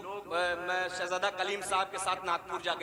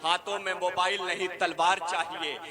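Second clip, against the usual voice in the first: declaimed couplet, measured and emphatic; poem recital. Acted. Poet reciting a couplet to the mushaira audience, declaimed. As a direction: recite it to the crowd with weight.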